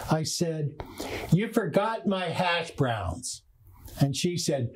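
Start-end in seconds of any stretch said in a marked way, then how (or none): 1.3-3.4 slow, disrespectful complaint; condescending. Retold or imitated. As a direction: talk down to the server, slowly, with disrespect. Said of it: "in a condescending voice with a very disrespectful tone".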